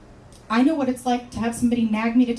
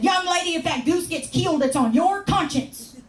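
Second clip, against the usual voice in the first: higher, lightly voiced stern old man; scolding caller; 5 semitones higher than usual. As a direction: wag a finger with mock solemn warning. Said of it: "He said".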